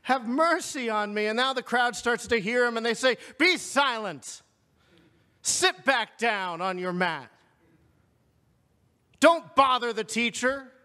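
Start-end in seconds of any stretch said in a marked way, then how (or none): 0.0-1.3 insistent plea, slightly raised; acted cry growing more urgent; louder still. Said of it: "He gets louder". 3.4-10.7 stern crowd telling someone off; sharp rebuke. Retold or imitated. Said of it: "They rebuke him sharply".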